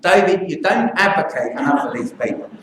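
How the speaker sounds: a light Cockney accent, mildly imitated. Doctor quoting the feisty English nurse in a light Cockney accent. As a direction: sketch the nurse in a hint of Cockney. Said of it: "I should do my Cockney accent".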